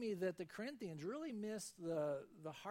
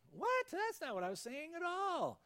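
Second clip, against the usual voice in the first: much higher and louder, mock disbelief; shocked surprise; 11 semitones higher, 5 dB louder than usual. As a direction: blurt it out, taken aback. Friend hears the misunderstanding.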